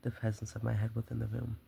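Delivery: dramatic, measured storyteller's read; story narration. A narrator's reading. Murderer confesses his careful nights to the listener, story narration. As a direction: read the tale with relish.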